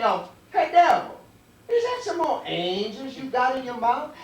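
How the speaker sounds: high, loud call to the devil; man calling out. Acted. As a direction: holler it across the yard. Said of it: "the man say".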